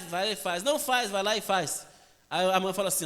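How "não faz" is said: quick high-pitched mock scolding; exasperated warning. Mother keeps catching her son at it, exasperated warning.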